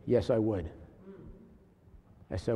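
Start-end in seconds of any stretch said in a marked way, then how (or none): 0.0-0.7 understated sincere reply; very seriously. Retold or imitated. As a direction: answer gravely, the way the man said it. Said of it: "very seriously".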